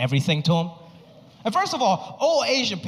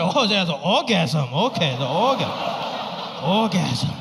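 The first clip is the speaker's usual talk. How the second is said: lightly voiced dad. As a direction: sound out the new word like the old dad. Dad repeating word slowly.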